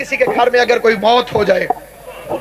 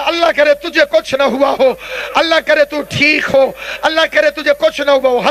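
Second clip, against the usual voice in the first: impassioned, mournful preaching in a raised tone; fervent storytelling, phrase by phrase; majlis tragedy narration; 3 semitones higher than usual. Real, not acted. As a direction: tell the sacred tragedy to stir weeping.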